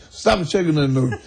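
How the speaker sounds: half-amused mock reprimand to a pupil; scolding music teacher. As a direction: imitate a strict teacher, with mild force. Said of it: "slap him on the finger and say".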